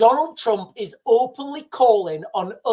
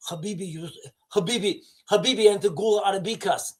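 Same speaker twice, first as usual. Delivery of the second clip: Baghdadi Arabic accent; faster than usual. Shown as a demonstration. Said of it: "my Arabic accent is Baghdadabik".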